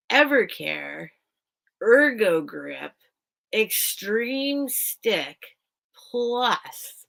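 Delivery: slow, spelled-out brand name like an ad; hammed-up Wayne's World product placement; mock product plug. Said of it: "I feel like I'm on Wayne's World".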